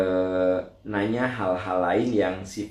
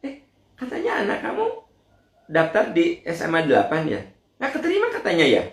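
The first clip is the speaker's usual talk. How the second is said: much higher, fast, laughing busybody; nosy gossip; 8 semitones higher, faster than usual. Retold or imitated. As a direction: gleefully needle about the rejection. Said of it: "Tapi ada orang-orang kayak gitu". (suara orang kepo, tinggi, cepat, tertawa)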